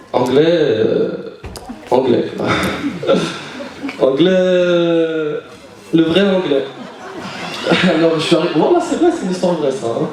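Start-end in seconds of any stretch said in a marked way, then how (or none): 0.1-2.2 anglais stretched very slowly and low; drawn-out anglais. Shown as a demonstration. 4.0-6.6 anglais stretched very slowly again; slow mock anglais; drawn-out anglais. Shown as a demonstration.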